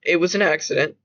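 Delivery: a little pissed off. Acted. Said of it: "a little pissed off".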